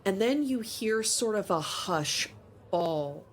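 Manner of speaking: measured scene-setting narration; storyteller GM voice; game master narration. Acted. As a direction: paint the market for the players. GM describes market scene.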